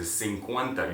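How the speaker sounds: "cincuenta" with s sound for the c; Spanish s sound. Shown as a demonstration. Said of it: "You hear that sound".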